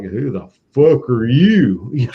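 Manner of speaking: put-on slow, drawn-out Southern accent. Ancestor at a tavern challenging a stranger, in a Southern accent. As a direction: lightly put on a Southern accent, stretching the words. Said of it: "Maybe not in a Southern accent".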